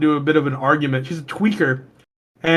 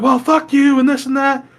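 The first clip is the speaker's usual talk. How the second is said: higher, mock angry aunt; mock aunt cursing; 8 semitones higher than usual. Aunt cursing him during the fight, higher mock anger.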